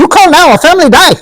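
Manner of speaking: very high-pitched mock Asian-accented threat. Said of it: "you can half accent".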